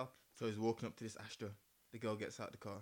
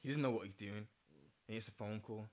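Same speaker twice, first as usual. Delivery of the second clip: fireside storytelling; 2 semitones lower than usual. Acted. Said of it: "Get my storytelling voice on".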